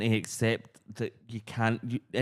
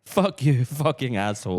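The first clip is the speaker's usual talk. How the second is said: mock angry; 2 semitones higher than usual. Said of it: "trumpet fight lyrics".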